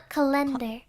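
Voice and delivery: calendar with stress on the second syllable, ca-LEN-dar. Shown as a demonstration. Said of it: "accent on the E".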